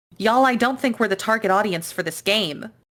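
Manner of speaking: loud shout, called out. Recalling a moment with friends, the speaker repeats what they shouted: retelling a shout. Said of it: "and I shout it".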